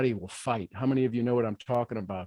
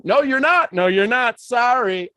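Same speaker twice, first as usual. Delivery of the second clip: teasing taunt; 8 semitones higher, 7 dB louder than usual. Pretend. Taunting the bad days.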